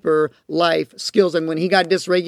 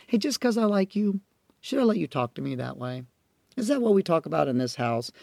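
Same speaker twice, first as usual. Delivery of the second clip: warm, kind parent; 6 dB quieter than usual. Shown as a demonstration. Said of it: "modeling what warmth, kindness, and respect".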